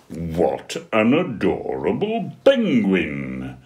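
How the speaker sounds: rising to a high, loud gush; man squealing for a cuddle; gushing big man. Acted. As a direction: coo over the adorable penguin. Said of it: "he cried".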